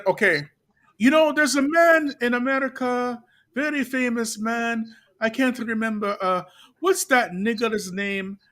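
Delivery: lightly voiced shopkeeper, slowing down, ending in a high, drawn-out "Malcolm X"; imitating Yemeni brother. Retelling the Yemeni shop brother's words, lightly imitated, slow and high at the end. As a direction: mimic the brother's slow, innocent question, then hit the name high and long. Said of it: "That's how he said it".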